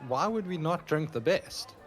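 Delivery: insistent character. Acted. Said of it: "I say".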